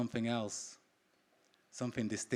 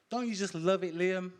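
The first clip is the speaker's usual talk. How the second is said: lightly voiced dreamy partner; 8 semitones higher, 4 dB louder than usual. Partner Donetta asking Liam dreamily on the beach. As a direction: float it up, a little higher. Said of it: "asked dreamily".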